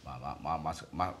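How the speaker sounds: stuck on the first syllable, stammering low; flustered stammering. Acted. Husband admitting to his wife he forgot the mascara, flustered stammer. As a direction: stumble and backtrack, caught out.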